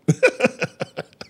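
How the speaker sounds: high, staccato chuckle; chuckling after an outburst; laugh. Real, not acted. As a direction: laugh in quick separate bursts. Laughs after his own outburst.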